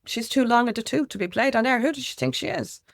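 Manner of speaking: high, mocking impression of a snooty radio boss; imitating a condescending head of music; dismissive sneer. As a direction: scoff at her like a gatekeeper. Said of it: "it was just like".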